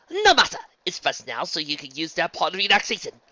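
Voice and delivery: high, loud, breezy opening; cheerful. A narrator's reading. Rarity urging Luna to relax, cheerful. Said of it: "Rarity said cheerfully".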